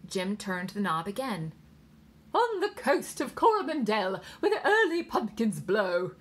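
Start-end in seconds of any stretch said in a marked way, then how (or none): 2.3-6.2 high, loud English nurse; pronounced English accent. A narrator's reading. Nurse reciting nursery verse over the radio, pronounced English accent. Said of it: "a woman with a pronounced English accent".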